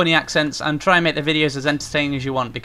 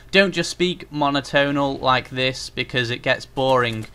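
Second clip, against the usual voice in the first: slow, even, lifeless monotone; deliberately boring monotonal read; monotone demo. Shown as a demonstration. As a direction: drone it out with no tune at all. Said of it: "You can see what I mean?".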